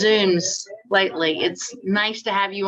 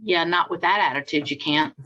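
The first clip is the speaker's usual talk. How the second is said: stern; 3 semitones lower than usual. Retold or imitated. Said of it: "this is not sweet, angelic Athena".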